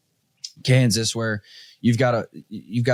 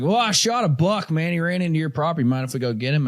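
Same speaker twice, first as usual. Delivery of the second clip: redneck hunter; 4 semitones higher than usual. Retold or imitated. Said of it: "He's like".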